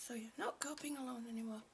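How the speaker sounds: soft, fast unvoiced whisper. Real, not acted. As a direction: whisper it close and quick. Repeated as a whisper.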